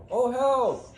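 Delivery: high, loud wounded cry; yelling for help. Acted. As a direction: call out to distant passers-by. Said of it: "hear him off in the distance yelling".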